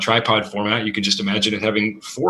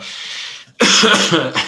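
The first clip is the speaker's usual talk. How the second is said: coughing fit; 8 semitones higher, 3 dB louder than usual. Real, not acted. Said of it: "I'm choking on this delicious Chicago water".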